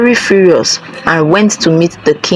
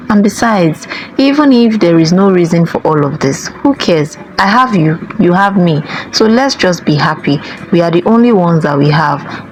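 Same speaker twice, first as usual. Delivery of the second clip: lightly voiced tender mother, pleading; gentle mother. Mother comforting her mocked daughter, lightly tender.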